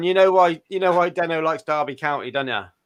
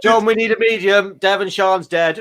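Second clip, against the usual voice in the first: laughing; 5 semitones higher than usual. Real, not acted. Laughing after the joke.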